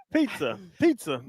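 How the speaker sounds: "Pizza" as "PEET-sa"; testing pizza aloud. Shown as a demonstration. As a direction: try out "Pizza", hearing the TS. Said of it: "There's no T in pizza".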